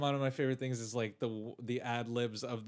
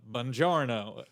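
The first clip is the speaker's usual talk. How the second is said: bad Italian accent; 3 semitones lower, 6 dB louder, slower than usual. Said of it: "and Brad Pitt said the".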